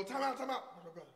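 high, loud shouting across the court; yelling at brother. Retold or imitated. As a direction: yell over like a big brother. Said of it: "and I go".

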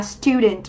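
"student" stressed on STU; stress on first syllable. Shown as a demonstration. Teacher modelling a noun for students, first syllable of "student" stressed. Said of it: "trọng âm rơi âm tiết thứ nhất".

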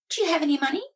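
high, loud witch question; old witch voice. A narrator's reading. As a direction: ask it like a greedy old witch. Witch asks, raised voice.

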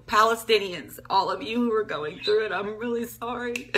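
barely holding it together; choked up. Real, not acted. Grieving vlogger apologising to Palestinians, choked and soft. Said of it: "I've been crying all week".

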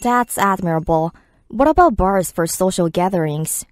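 slow, careful English read; slow listening-track read; slow dialogue read. Acted. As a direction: read both lines slowly for learners.

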